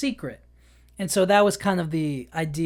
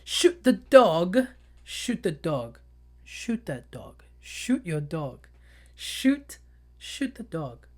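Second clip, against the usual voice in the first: trying out British accent; slower than usual. Shown as a demonstration. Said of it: "How, how do you do it in the".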